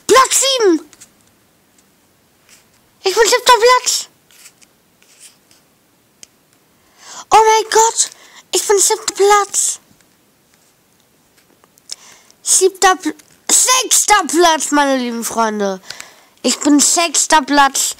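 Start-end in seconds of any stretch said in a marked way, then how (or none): 0.1-14.7 excited cheering. Real, not acted. Climbing the leaderboard, cheering. 16.4-18.0 excited. Real, not acted. Reached sixth place.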